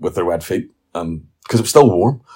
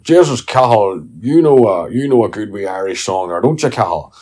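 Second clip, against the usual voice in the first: pub crowd coaxing; 2 semitones higher, 6 dB louder than usual. Retold or imitated. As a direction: egg the kid on to sing. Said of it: "it's like going".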